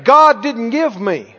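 loud, slow lead for the congregation; deliberate call-and-response preaching; out-loud declaration. Shown as a demonstration. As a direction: declare it firmly for others to echo. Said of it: "Everybody said out loud".

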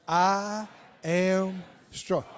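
very slow, faint and drawn out; faint whisper. Retold or imitated. Dying woman whispering her confession. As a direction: drag it out in a feeble breath. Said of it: "Only she said it in a bare whisper".

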